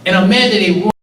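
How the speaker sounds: heated, emphatic frustration spilling out; repeated mad, building with feeling; real anger. Real, not acted. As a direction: let the anger at the unfairness push through each line. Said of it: "I'm crying and mad".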